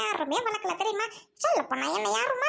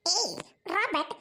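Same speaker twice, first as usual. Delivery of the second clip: slow drawn-out call; 3 semitones lower, much slower than usual. Acted. Teasing girlfriend calls her boyfriend by name, slow and drawn out. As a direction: stretch the ஏய் long and let it fall. Calling him again, drawn out.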